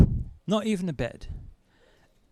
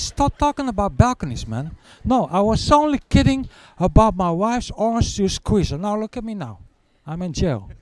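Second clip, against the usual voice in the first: louder, higher fed-up protest; exasperated cellmate; 6 semitones higher, 4 dB louder than usual. Retold or imitated. Cellmate annoyed at the balcony jokes, exasperated. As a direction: snap back, fed up.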